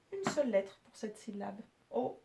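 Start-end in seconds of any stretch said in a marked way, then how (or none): 1.9-2.2 O as one isolated syllable; O cut off as its own beat; split into syllables. Shown as a demonstration. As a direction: sound out O alone, then pause. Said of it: "trois syllabes".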